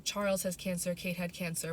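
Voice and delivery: ordinary delivery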